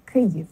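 Kyiv as KY-yiv, falling on the second syllable; first-syllable stress. Shown as a demonstration. Teacher showing the stress, Kyiv stressed on the first syllable. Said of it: "And the first syllable is stressed".

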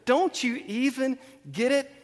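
exasperated Jesus. Retold or imitated. Jesus to disciples who miss it, acted exasperation. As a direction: act at your wits' end. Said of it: "You can just see he's exasperated".

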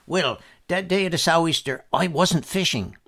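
put-on spring the news like a proud old man; lightly voiced boastful old man; old Uncle George. A narrator's reading.

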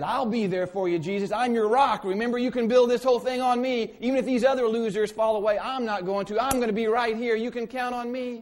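loud, high, cocky paraphrase of Peter; boastful Peter. Retold or imitated. Preacher paraphrases Peter bragging to Jesus, loud and cocky. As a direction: brag like an overeager disciple. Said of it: "he said".

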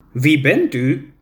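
slow, lightly voiced elderly lady, puzzled; a confused old mother at the window; frail old woman.

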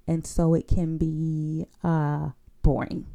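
droning monotone, slowed; deadpan, drawn-out flat delivery. Shown as a demonstration. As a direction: say boring like it bores you. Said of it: "very little variation".

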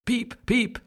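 high, tiny chick peep; duckling peep. A narrator's reading. Hatching duckling greeting the world, high peep. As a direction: squeak it like a newborn chick. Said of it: "it cried".

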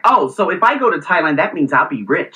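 mildly snobby retort, imitating an acquaintance; mock a snob's remark, lightly done. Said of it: "said it in a very snobby tone".

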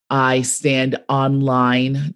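slow New York "online" run together as one word; New York line-standing, drawn out; New York accent. Shown as a demonstration. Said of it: "my New York accent is on display".

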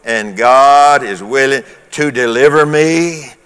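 preacher feeding lines for the congregation to echo; leading congregational declaration. Real, not acted. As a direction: lead the room in repeating it. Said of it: "So say that with me".

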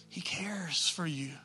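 slow, hushed reassurance; soft, slow, whispered comfort; tender whisper. Acted.

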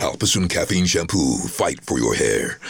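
measured shampoo commercial voice-over; TV advert read. Shown as a demonstration. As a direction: television advert sign-off. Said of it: "lots of television adverts".

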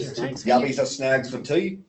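put-on slow, careful Australian accent; slow mock Australian accent. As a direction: read it slowly like an Aussie. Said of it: "very good Australian accent".

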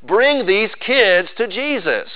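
mock indignant scolding, slow; scolding disciples. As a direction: shoo the parents off sternly. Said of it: "almost as they were saying".

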